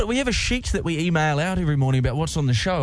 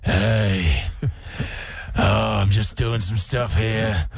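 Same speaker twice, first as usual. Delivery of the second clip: put-on drunk Batman voice; 4 semitones lower, slower than usual. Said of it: "You sound like a drunk version of the character".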